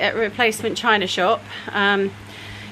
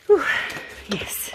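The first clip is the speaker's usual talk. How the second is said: out of breath; 3 semitones higher, 3 dB quieter than usual. Real, not acted. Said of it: "I'm a bit out of breath".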